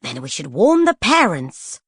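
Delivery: slow, reluctant concession; grudging agreement. Acted. Poisons conceding to Lady Feroza, grudging. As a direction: give in without liking it. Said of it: "with grudging agreement".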